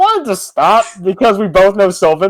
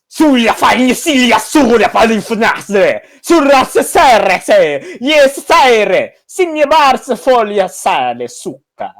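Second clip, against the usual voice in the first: mock Italian gibberish; 3 semitones higher, slower than usual. Kells speaks Sylvan in a mock Italian accent. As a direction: fake Italian-sounding gibberish, rolled out slowly. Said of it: "Kells just goes".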